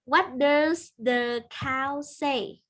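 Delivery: put-on reading to a toddler. Teacher asks small pupil slowly.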